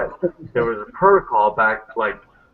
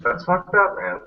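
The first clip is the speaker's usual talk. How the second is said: shocked; 9 semitones higher, slower than usual. Retold or imitated. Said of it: "I was like".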